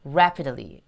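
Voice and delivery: "rapidly" begun with rounded lips; cute, round-lipped R on "rapidly". Shown as a demonstration. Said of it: "입 동그랗게 하시는 거".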